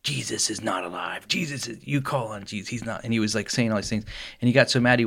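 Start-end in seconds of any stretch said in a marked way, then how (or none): 0.0-3.0 mock whisper.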